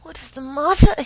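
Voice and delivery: loud, high-pitched demand; alarmed cry. A narrator's reading. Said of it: "he cried".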